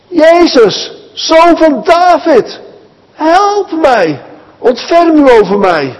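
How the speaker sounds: high, slowed, full-voice cry; shouting for help. Acted. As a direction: scream it over the crowd to be heard. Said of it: "zo roept hij dus, zo hard hij kan". (zo hard mogelijk, hoog smekend schreeuwen)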